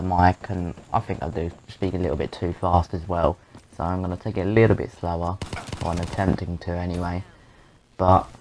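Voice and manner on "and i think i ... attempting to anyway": quiet. Real, not acted. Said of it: "I'm trying it not to be too loud, 'cause my parents are sleeping".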